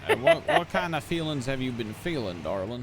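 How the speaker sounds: southern gent. Acted. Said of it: "when you call me darling like that".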